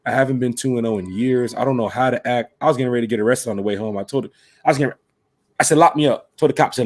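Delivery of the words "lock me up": loud, pushy lock me up; half-joking shout at a cop; mock plea to the cop. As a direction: demand to be arrested. Demanding arrest from the cop.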